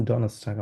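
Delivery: Donnerstag as "do-nas-tak"; silent R. Shown as a demonstration. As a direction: model Donnerstag with no R sound. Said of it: "এটাকে আরটা উজ্জ্বল রেখে বলেন". (Donnerstag উচ্চারণে র বাদ, "ডনাস্টাক")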